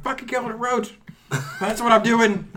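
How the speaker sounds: high-pitched, worked-up yelling back; retold frantic shout. Man stomping a roach answers his family, shouting. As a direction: yell it back, caught up in the fight.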